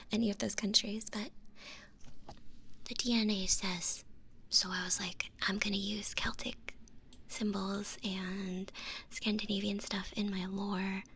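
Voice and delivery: low, hushed ASMR stream voice; soft-spoken ASMR. Real, not acted. Streamer chatting to her ASMR viewers, low and soothing. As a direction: keep it low and soothing, close to a whisper.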